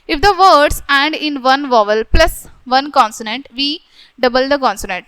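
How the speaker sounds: reading the rule out slowly, word by word. Shown as a demonstration. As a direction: dictate the grammar rule to the class. Reads English rule slowly. (धीरे-धीरे नियम पढ़कर सुनाना)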